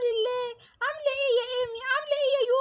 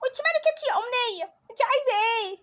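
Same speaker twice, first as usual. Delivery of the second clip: put-on cheeky bully girl. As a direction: snap back like a spoiled child.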